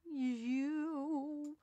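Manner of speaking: a single ominous you; lightly voiced sinister octopus; menacing creature greeting. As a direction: greet the victim like a lurking monster.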